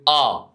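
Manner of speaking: "اه" as a light open "ah"; "اه" as plain Italian A, "ah"; light open vowel. Shown as a demonstration. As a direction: say "اه" like a light Arabic fatha. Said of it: "فتحه خفيفه كده".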